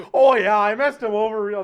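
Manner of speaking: loud, hammed-up bad Australian accent; attempted Australian accent. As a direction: belt out a botched Australian brag. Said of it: "They're live at five A M Australian time".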